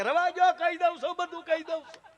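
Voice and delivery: high, frantic pleading to be let off; panicked confession. Retold or imitated. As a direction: squeal out the confession in fright. Culprit begs to confess.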